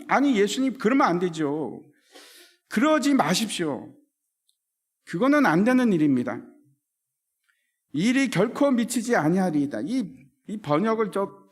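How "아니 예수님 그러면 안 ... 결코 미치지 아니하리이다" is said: rebuking protest. Retold or imitated. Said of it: "꾸짖는 모습입니다. 책망".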